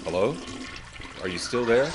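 puzzled caller on noisy line; unanswered caller over background noise; condenser mic phone. Shown as a demonstration. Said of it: "with a condenser mic, it's like this".

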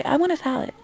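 high-pitched mimicry of a customer; mock customer. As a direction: imitate a clueless customer's order. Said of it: "don't just say".

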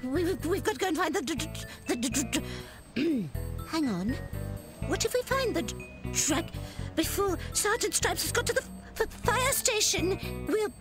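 nervous, stuttering, voice rising in panic; scared stammering. Acted. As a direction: stammer with fear, then squeak out hide. Scared character stammering about dragon.

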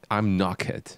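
amateur imitation of a British friend; British accent impression. Shown as a demonstration. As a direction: attempt a British "knackered", ending in a laugh. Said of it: "do his impersonation".

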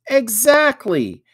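loud, high, drawn-out exclamation; exclaiming. A narrator's reading. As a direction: exclaim it with emphatic approval. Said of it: "exclaimed Samuel".

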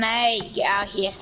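lightly put-on Aussie voice; a hint of a mock Australian accent. Chasing off the drone, light Australian accent. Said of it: "stop doing the accent".

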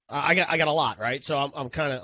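stumbling over repeated words; halting stutter. Real, not acted. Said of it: "I'm stuttering here".

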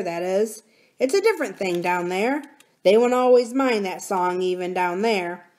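put-on knowing young miner, a bit lifted; plucky boy warning with relish; lightly voiced miner boy. Miner boy warning of goblins down the mine, knowing.

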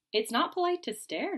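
a light high scold; tut-tut at the staring child snake; chiding. Acted. Old snake scolding young Verdi, chiding high. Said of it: "chided Aggie".

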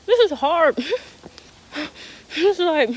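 loud, high exasperated groan of a line; real despair over bad corn. Real, not acted. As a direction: vent the frustration out loud. Struggling with disappointing corn.

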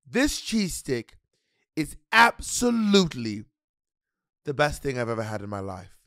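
slow mock-British praise; a hint of the chef turning sweet; imitating Gordon Ramsay. Imitating Gordon Ramsay praising the cook, slow and drawn out. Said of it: "he goes".

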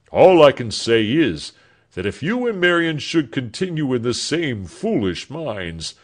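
a lightly voiced laughing old doctor; a hint of a blustery, teasing old doctor; jovial old doctor. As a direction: brush off serious talk with a chuckle.

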